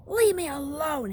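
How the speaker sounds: put-on boy cries out, hurt; shout. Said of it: "he shouted".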